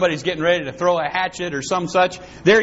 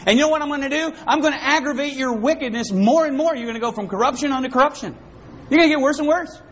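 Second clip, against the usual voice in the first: raised, stern voice of God; a hint of God's stern judgment; voicing God; 7 semitones higher than usual. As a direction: speak as God handing them over. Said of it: "God says".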